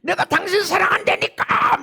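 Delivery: high, loud re-enacted outburst; retold yelling. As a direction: shout it in wronged protest. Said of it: "나도 모르게 소리를 질렀어요".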